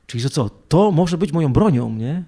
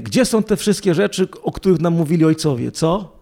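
higher, sarcastic challenge; mocking; 3 semitones higher than usual. Gideon mocking the angel, sarcastic and higher. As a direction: needle him like a disappointed man. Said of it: "i też sobie kpi".

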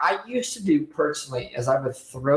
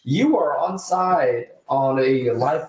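laughing; much slower than usual. Real, not acted. Announcing live caller, laughing.

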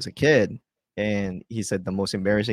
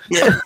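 high burst of laughter; loud laugh; 8 dB louder than usual. Real, not acted. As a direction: cackle out loud. Big laugh at joke.

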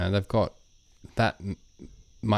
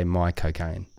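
Michael Caine; 3 semitones lower, 4 dB quieter, slower than usual. Shown as a demonstration. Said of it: "to sound like Michael Caine".

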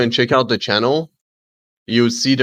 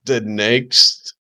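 mock video narrator, measured phrases; lightly hammed-up story setup; stupid narrator voice; slower than usual. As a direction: narrate it like a cheesy moral tale. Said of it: "The, the stupid voice".

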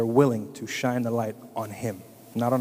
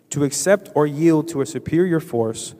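loud, emphatic repeat reading; reading aloud; 3 semitones higher, 6 dB louder than usual. Real, not acted. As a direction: read the definition out with force. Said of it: "I'll read it again".

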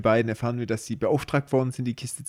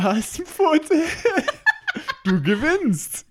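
laughing through the words; giggling while talking; slower than usual. Real, not acted. Laughs at Sauron joke.

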